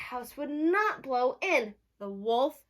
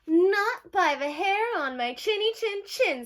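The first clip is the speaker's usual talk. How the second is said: high, loud squeaky panicked pig; panicked squeak; 10 semitones higher, 7 dB louder than usual. Acted. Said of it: "squeaked the panicked pig".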